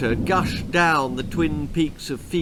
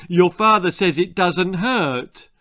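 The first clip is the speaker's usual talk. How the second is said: higher, louder insistent mum; demanding, raised-pitch scolding; demanding mother; 5 semitones higher, 5 dB louder than usual. Acted. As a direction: lay down the law to the child. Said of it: "demanded Missus Cluck".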